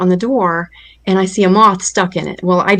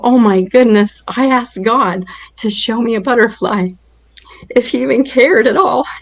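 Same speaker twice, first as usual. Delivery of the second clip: amazed laughing; 3 semitones higher than usual. Retold or imitated. Amazed at the butterfly.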